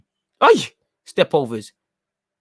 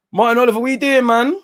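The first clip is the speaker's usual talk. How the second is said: higher, louder disbelieving complaint at the referee; exasperated at the ref; 8 semitones higher, 3 dB louder, faster than usual. Real, not acted. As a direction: throw your hands up at the ref.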